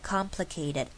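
COMPLICATED stepping down syllable by syllable; 一阶一阶往下. Shown as a demonstration. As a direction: let "complicated" descend like stairs. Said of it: "一阶一阶往下的". (complicated音调一阶一阶往下)

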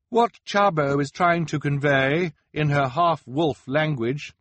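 high, loud disguised voice; disguised boy explaining. Acted. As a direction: explain it to a crowd in a put-on high voice.

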